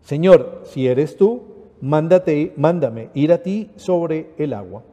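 measured liturgical reading of scripture; solemn reading of the Gospel at Mass. Acted. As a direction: proclaim the passage steadily to the congregation. Reads the gospel aloud.

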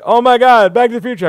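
loud, high gasp of recognition; mock fan excitement. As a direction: gush like a starstruck fan. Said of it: "they're like".

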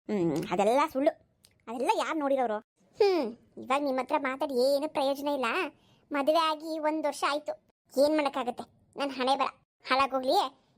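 put-on an old mother-in-law doting on her son. (ಮಗನನ್ನು ಹೊಗಳುವ ಮುದುಕಿ ಅತ್ತೆ ಧ್ವನಿ)

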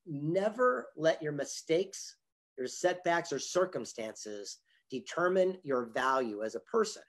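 slow, measured words with weighty pauses; solemn retold advice. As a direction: hand down the lesson slowly, phrase by phrase. Retelling a mentor's solemn advice.

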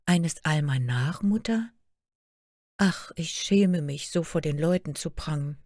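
a hurt daughter pouring out her sorrows; young princess Märchen. Acted. Daughter complains to her queen mother, lightly plaintive girl voice.

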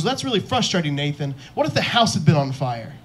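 upset dad. Retold or imitated. Dad scolding son for missing dinner, mock exasperation. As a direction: imitate a frustrated dad scolding his son. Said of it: "My dad was very upset".

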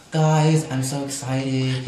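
lightly imitated excited diva, slow; a singer. The singer greets the writers in the studio, lightly mock excited. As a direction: draw out a mock-excited announcement. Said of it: "she was all excited".

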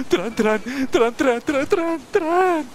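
thrilled yelling as the train arrives; excited train shouts. Real, not acted. Gamer spotting the train, rising excited shouts.

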